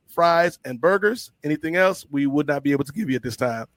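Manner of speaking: speaker announcement. Retold or imitated. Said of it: "she'd come back on the speaker".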